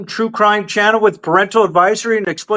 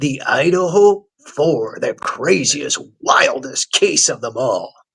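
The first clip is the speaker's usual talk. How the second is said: lower, mock hyped wrestling announcer voice; 8 semitones lower than usual. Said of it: "He sounds like a wrestling announcer".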